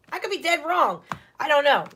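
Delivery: amused at herself, laughing; chuckling self-doubt. Real, not acted. Laughs at own uncertainty.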